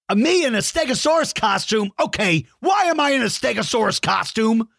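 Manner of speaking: high, incredulous question; puzzled and tickled, pitch it up; amused surprise. Real, not acted. Finds himself drawn in costume.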